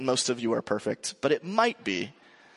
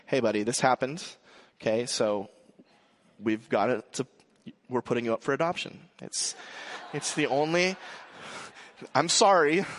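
mock stern lecture. Father joking what he told his five-year-old, mock stern. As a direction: pretend to hand down a harsh sentence, deadpan.

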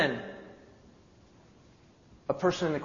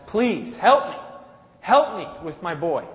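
desperate pleading father; 2 semitones higher than usual. Acted. Father begs the disciples.

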